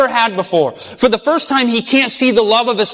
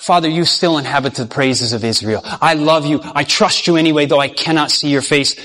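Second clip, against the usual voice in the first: a gentle, lower prayer of trust; tender trust; 6 semitones lower than usual. Acted. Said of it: "Jesus cried out".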